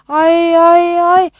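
loud, high drawn-out wail; wailing cry. A narrator's reading. Rose bursts into tears at bad news, wailing. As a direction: wail "ay" in rising distress. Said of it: "Rose katıla katıla ağlamaya başladı".

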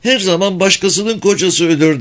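gossiping woman. A narrator's reading.

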